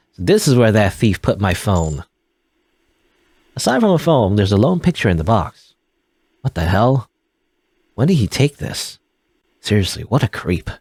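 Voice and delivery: lightly voiced, disgusted young man; a mild shocked recoil at the photo; voicing Ryland, creeped out. Ryland finding the stolen photo, mildly disgusted.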